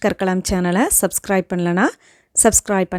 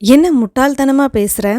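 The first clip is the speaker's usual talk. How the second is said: raised, louder angry demand; a sharp, raised angry question; angry rebuke; 4 semitones higher, 4 dB louder than usual. Shown as a demonstration. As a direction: scold them for talking nonsense. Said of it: "கோபத்தோட பேசுறதுக்கு".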